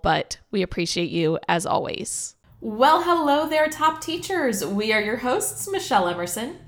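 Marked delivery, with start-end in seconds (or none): 2.6-4.7 muffled underwater sound. Real, not acted. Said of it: "kinda sounds like I'm underwater". 4.7-6.6 underwater. Real, not acted. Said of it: "kinda sounds like I'm underwater".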